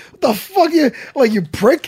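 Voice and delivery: imitating Jimmy. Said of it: "Jimmy's looking at me like".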